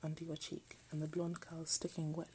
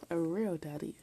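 mocking question, louder; incredulous echo; 6 dB louder than usual. Real, not acted. Reader echoing the book in disbelief: mocking "real daddy?". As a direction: repeat it in disbelief.

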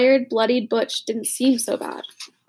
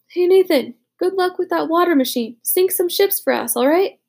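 higher, louder parting call; 7 semitones higher, 4 dB louder than usual. A narrator's reading. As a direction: call after him as he walks off. Butch calls after departing Nathan.

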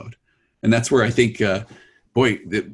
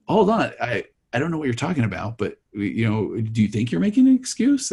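feigned innocence; 2 semitones higher than usual. Retold or imitated. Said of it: "I had to take on the acting role of a lifetime".

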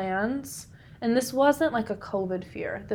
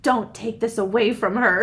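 louder, insistent retold plea; firm; 7 dB louder than usual. Giving Dad a pep talk for the daughter, firm. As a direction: put your foot down, reenacted. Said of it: "I was so firm".

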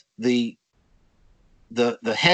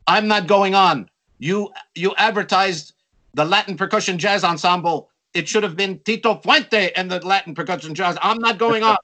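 hammed-up protest, pitched up; indignant complaint; 6 semitones higher than usual. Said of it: "a bandleader was saying".

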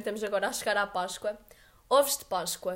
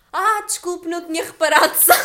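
startled apology; 5 semitones higher, 11 dB louder than usual. Retold or imitated. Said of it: "E eu".

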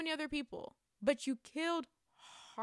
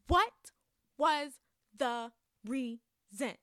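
outraged what; 4 dB louder, much slower than usual. Real, not acted. Fan demanding the reason for the death, loud outrage. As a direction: blurt it out in outrage.

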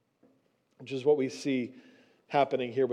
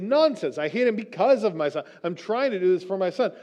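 indignant denial; 4 semitones higher than usual. Retold or imitated. Saul's imagined indignant retort.

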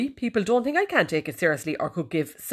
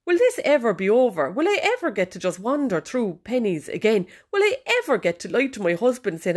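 hammed-up despair in a raised pitch; mock lament; 5 semitones higher than usual. Shopper mourning Penneys during lockdown, mock lament. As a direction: wail the questions melodramatically.

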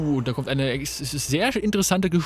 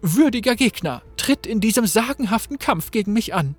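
lightly voiced thrilled fighter, higher and louder; eager warrior Nilah; 4 semitones higher, 3 dB louder than usual. Nilah challenges the herald with battle joy, a hint of bravado. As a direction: relish the coming fight, grandly. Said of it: "sie sagt".

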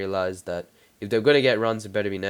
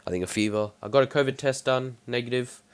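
stuffy, congested voice; talking through a blocked nose. Real, not acted. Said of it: "I can't breathe out of my nose right now".

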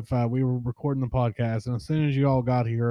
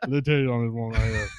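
imitating Bobby; 3 semitones higher than usual. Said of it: "not exaggerating at all".

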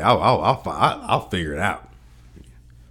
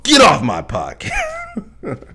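high silly voice; 5 dB louder, much slower than usual. Acted. Mock warning inside a podcast joke.

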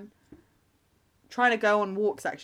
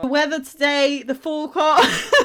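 higher-pitched presenter send-up, breaking into laughter; mock weather forecast; 5 semitones higher, 5 dB louder than usual. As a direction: play at reading the weather and start laughing.

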